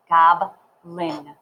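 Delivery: "Goblin" split as gob, pause, lin; syllable by syllable. Shown as a demonstration. Teacher helping learners write goblin, split syllables. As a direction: say "Goblin" in two separate parts. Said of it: "So first write gob".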